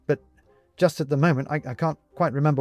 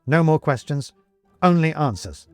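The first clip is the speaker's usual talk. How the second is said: stern, louder; 7 semitones higher, 6 dB louder than usual. A narrator's reading. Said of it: "says Benedict sternly".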